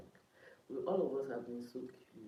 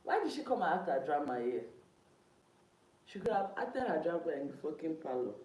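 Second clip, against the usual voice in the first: annoyed venting; 3 semitones higher, 6 dB louder than usual. Real, not acted. Complaining to viewers after the row.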